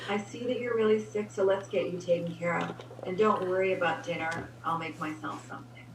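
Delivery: wife reassuring her sick husband; caring wife. Retold or imitated. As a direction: reassure him gently. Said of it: "I didn't hear you the first time".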